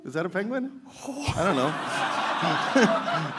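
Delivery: silly penguin noise attempt; hammy penguin sounds, half-laughing; squawky bouncy penguin. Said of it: "your best penguin impression".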